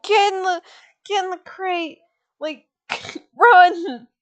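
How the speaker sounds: high, hammed-up warning; mock urgent alarm. Mama Luna urges them to hide.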